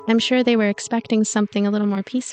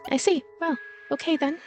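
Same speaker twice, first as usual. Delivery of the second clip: soft, higher voice with a touch of tears; blunt words, faintly tearful and trailing softer; blunt, somewhat tearful; 5 semitones higher, 5 dB quieter than usual. A narrator's reading. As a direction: hold back a hint of tears. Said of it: "Her voice is blunt, but somewhat tearful".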